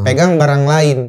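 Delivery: measured, deliberate order; clear instruction. Retold or imitated. Survivor redirecting a panicking man, measured clear instruction. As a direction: repeat the order plainly and distinctly. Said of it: "instruksi jelas tuh".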